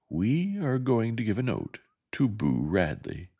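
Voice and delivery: slow, calm and unruffled; a boy stating a bold plan calmly; placid. A narrator's reading. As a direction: lay it out placidly, unhurried. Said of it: "Jem said placidly".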